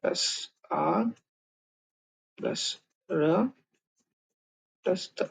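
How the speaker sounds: very slow, soft, letter by letter; slow spelling out. Shown as a demonstration. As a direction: spell it out piece by piece, slowly. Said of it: "चलिए इसको तोड़ते हैं".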